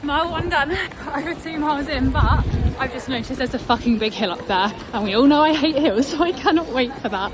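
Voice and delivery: talking mid-run; panting out words on the run; while running. Real, not acted. Mid-marathon vlog.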